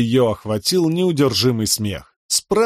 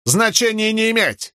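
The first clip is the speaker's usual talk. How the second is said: much higher, cutting broken Russian; curt Horneater accent; 10 semitones higher than usual. A narrator's reading. Shallan, playing a Horneater, cuts Kal off in a fake Horneater accent. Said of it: "отрезала она".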